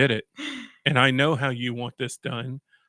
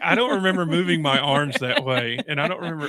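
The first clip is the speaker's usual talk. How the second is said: mock lisp; 3 semitones higher than usual. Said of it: "I do it with a lisp".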